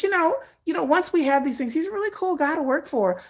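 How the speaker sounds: quiet, smoothing it over; a light take on a sane-washing assistant; mock earnest assistant. Assistant excusing the singer's quirks, softly earnest. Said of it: "that's how they be talking".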